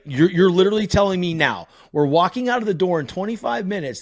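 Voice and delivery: mock a frustrated father laying down the law; retold scolding. Dad scolding son about the late shirt, exasperated.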